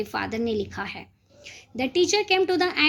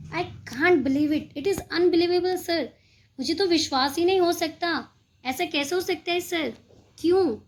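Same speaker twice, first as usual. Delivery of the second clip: mock disbelief; 4 semitones higher than usual.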